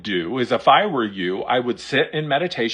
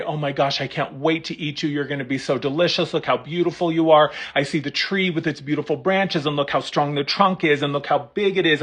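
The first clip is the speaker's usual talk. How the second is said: loving praise; faster than usual. Pretend. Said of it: "And you say".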